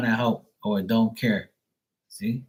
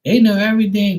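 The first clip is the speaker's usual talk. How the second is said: emphatic; 8 semitones higher, 6 dB louder, faster than usual. Real, not acted. Insisting kids understand everything.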